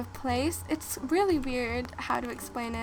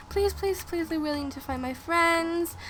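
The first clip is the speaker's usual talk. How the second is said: high, mild pleading to the crowd; lightly acted begging, voice up; 4 semitones higher than usual. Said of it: "I was begging them".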